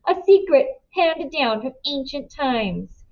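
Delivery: lightly exaggerated Indian accent, mocking a magician's patter; bully parodying an Indian accent, a touch hammed. A narrator's reading. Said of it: "he says, exaggerating my accent".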